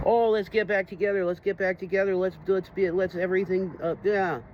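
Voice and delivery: mock imitation of his ex pleading to reunite; mocking ex-girlfriend. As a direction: sneer her words back in a sing-song. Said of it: "I talked to that fucking bitch".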